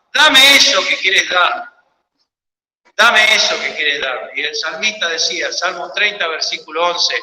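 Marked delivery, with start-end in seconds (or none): 0.1-1.7 drawn out, slow plea; slow pleading. Acted. God asks for all the believer holds, slow and pleading. God's voice asking in prayer. 3.0-4.3 lower echo. Acted. The plea to the believer repeated, lower and settled.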